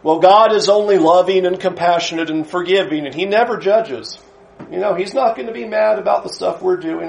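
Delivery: a casual mock of the cosmic teddy bear view; mocking breezy view. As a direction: parody a naive believer. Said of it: "You will often hear these one-dimensional views".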